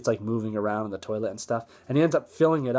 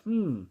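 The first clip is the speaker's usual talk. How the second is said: intrigued hum; 7 semitones higher than usual. Retold or imitated. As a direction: hum high as if tempted. Officers tempted by leaking stuff.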